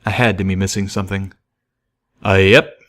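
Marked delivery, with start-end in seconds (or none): 2.2-2.8 a train pony's homespun drawl; folksy train pony. Acted. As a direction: explain like a simple hick worker.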